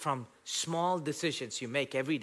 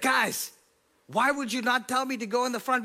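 imitating the pastor; 10 semitones higher, 4 dB louder than usual. Pastor voiced in story.

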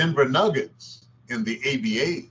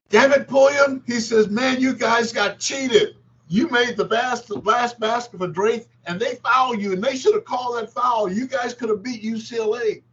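much higher, louder gruff coach; Red Auerbach impression; 11 semitones higher, 3 dB louder than usual. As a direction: rant like an indignant old coach on the phone. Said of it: "was from Red Auerbach".

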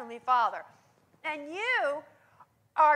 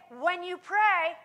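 slow emphatic; 3 dB louder, slower than usual. Shown as a demonstration. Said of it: "repeats the quote slowly".

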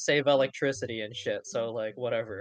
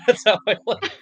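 higher voice bubbling with laughter; laughing innuendo; 4 semitones higher, 4 dB louder than usual. Real, not acted. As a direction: crack up at your own dirty joke. Cracks up at own innuendo.

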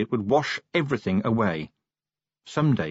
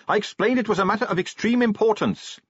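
high, raised explanation; pitched up to carry; calling back; 11 semitones higher than usual. A narrator's reading. Shouted exchange on moving coach.

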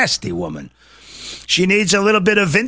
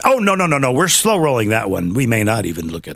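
mock official; 5 semitones lower, faster than usual.

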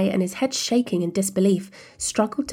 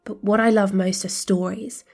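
eager; 2 semitones higher, 5 dB louder than usual. Acted. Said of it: "Rabin nodded eagerly".

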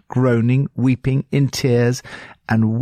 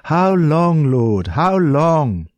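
raised, pleading cry to God; crying out like David; 6 semitones higher, much slower than usual. Retold or imitated. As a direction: call out high in anguish, like a psalmist. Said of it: "we cry out like David".

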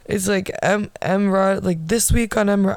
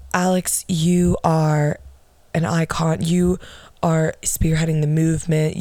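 imitating Emrata; 2 semitones lower than usual. Host gushing over her guest Alex, slow mock praise. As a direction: lay on the praise in a syrupy host voice. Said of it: "Emrata being like".

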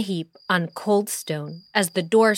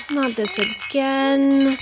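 moaning; 5 semitones higher, much slower than usual. Acted. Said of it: "she moaned".

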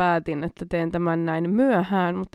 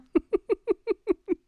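high, bursting laugh at the punchline; cracking up at the joke; burst of laughter; 13 semitones higher than usual. Real, not acted. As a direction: break into a real laugh.

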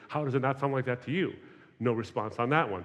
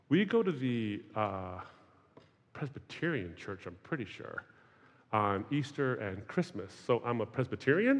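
unsure churchgoer; 3 dB quieter than usual. Retold or imitated. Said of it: "the answer was something like this".

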